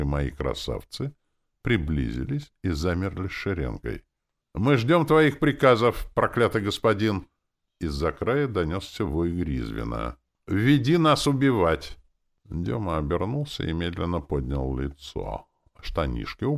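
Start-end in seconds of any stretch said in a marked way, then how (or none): 4.5-7.3 undead minions' hail. A narrator's reading. Liches hail their master in chorus. 10.5-12.0 loud, high creature call; undead battle cry. A narrator's reading. Liches demand to be led.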